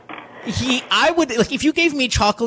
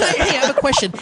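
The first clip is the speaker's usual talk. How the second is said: slight drag; 7 semitones higher than usual.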